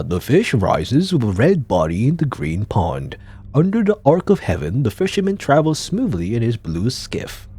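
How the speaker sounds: lightly voiced stage poet; poetic recital. Reads a poetic actor's line.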